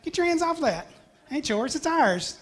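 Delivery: playful East Tennessee voice claiming what's ours; hammed-up East Tennessee twang, possessive and bossy; East Tennessee accent. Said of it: "But in East Tennessee".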